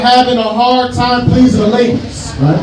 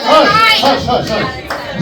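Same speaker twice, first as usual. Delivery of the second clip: shushing crowd; 3 semitones higher, slower than usual. Real, not acted. Hushing loud crowd.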